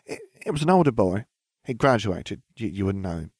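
stuttering. Acted. Blushing Ginny stammers about an older boy, embarrassed stutter. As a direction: trip over the first words, flustered.

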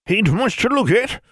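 high, raspy hill granny; old granny voice. A narrator's reading. Granny speaks.

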